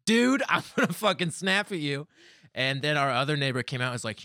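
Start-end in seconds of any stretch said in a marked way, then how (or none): 0.1-2.1 high, loud mock outburst; snapping. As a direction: imitate a usually chill girlfriend losing her temper. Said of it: "I've never seen her be like".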